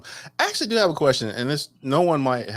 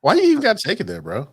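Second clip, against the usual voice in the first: incredulous; 10 semitones higher, 5 dB louder than usual. Real, not acted. Outraged at friend's joke.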